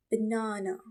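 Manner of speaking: "banana" drawn out slowly as one word. Shown as a demonstration. Teacher models "banana" slowly for students. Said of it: "Say it slowly".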